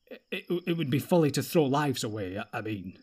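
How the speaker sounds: stumbling, caught out, backing off each word; hesitant, flustered retreat; flustered stammer. Acted. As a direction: stammer as if you said too much. Boromir catches himself mid-thought.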